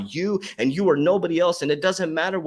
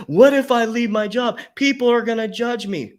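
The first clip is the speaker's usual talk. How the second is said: higher and louder, a fretful inner voice; mock anxious worrier; 8 semitones higher, 5 dB louder than usual. Coach voicing a viewer's worried thoughts, high and loud. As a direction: play the panicked overthinker. Voicing fearful adult overthinking.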